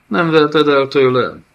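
cling to it, desperate; the dead child begs the nomad not to take the cloak; shrill undead child. A narrator's reading. Zion pleads for the cloak.

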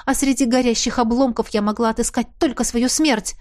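usual speaking voice

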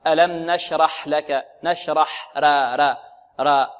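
را without any heaviness, as a bad example; wrongly light raa. Shown as a demonstration. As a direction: repeat نشرح and را with thin front vowel. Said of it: "ولا نقول".

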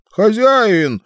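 высокий голос дракона; позвать хозяина драконом. A narrator's reading. (голос дракона)

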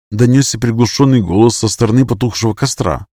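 ordinary delivery, nothing marked

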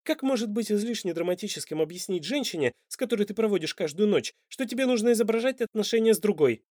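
rising anger at him; angry. Acted. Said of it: "в раздражении и гневе".

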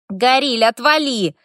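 выше и громче, спросонья; рявкни, не открывая глаз; сонный рявк. A narrator's reading. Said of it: "вдруг рявкнул в ответ эльфик". (сонный мальчишка огрызается на соседа, рявкает)

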